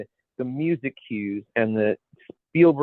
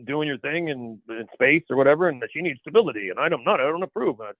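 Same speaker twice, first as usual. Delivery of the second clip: lightly put-on movie dub voice; a hint of badly dubbed older brother; mock dubbed dialogue, lightly voiced; dubbed-film voice. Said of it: "doing it in the dubbed voice".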